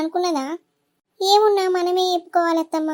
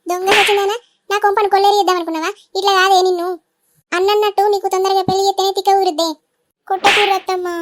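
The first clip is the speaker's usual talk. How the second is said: furious scolding. Acted. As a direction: tear into the girl in rage. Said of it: "కోపడకుర్రి".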